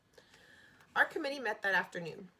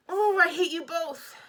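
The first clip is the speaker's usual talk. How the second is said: put-on high, loud, slow furious girl; girl stamping her foot at the boys; 9 semitones higher, 10 dB louder, slower than usual. A narrator's reading. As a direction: stamp and shout it.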